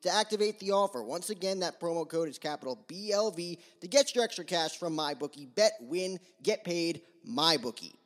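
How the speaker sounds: quick, smooth sponsor read. Acted. Host reading a sponsor ad to listeners, brisk ad-read voice. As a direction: sell the promo code like a radio spot.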